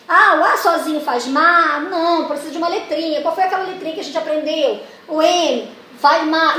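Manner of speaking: teacher guiding pupils at the board; teacher coaxing pupils. Shown as a demonstration. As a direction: lead the kids to the answer. Teacher voicing correction dialogue.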